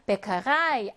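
베카라이 with the final 라이 stressed; 베카라이, weight held back for the last syllable 라이. Shown as a demonstration. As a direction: lean on the ending 라이 in 베카라이. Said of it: "자기 자신이 강세를 가져요".

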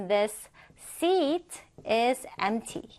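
slow, spaced-out example sentence; slow model reading. Shown as a demonstration. Teacher modelling an English example sentence for students, slow model reading. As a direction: read it out slowly for learners.

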